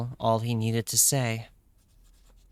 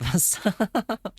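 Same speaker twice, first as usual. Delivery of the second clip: high giggling words; real laughter breaking through; laughing; 9 semitones higher than usual. Real, not acted. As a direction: promise it while cracking up. Laughing at own accent, promising to stop.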